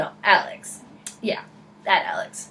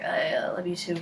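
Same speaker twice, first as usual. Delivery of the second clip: low, soft, hesitant mumble; awkward reply; 3 semitones lower, 8 dB quieter than usual. Retold or imitated. Friend answering an overexcited driver, awkward reply. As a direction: imitate an uncomfortable, muted response.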